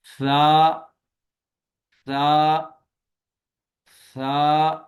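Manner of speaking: سا with tongue tip on upper teeth, no whistle; سا without any whistling s; no hiss. Shown as a demonstration. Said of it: "اس میں سیٹی کی آواز نہیں آئے گی".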